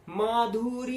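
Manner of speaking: माधुरी with the final री held long, high and loud; stress on ई. Shown as a demonstration. Acting teacher showing vowel stress, माधुरी with long loud री. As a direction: call out माधुरी, stretching the closing ई. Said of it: "ई पर stress गया".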